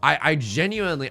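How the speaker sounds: normal talking voice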